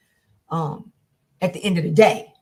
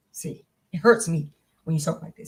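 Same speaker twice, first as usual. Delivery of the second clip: tender. Shown as a demonstration. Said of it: "be transparent".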